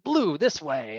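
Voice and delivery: a touch of first-call eagerness on "Blue, this way"; eager referee calling the wrong direction; excited wrong call. Retold or imitated. Eager referee pointing the wrong way at first call, mildly excited. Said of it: "and I'm super excited".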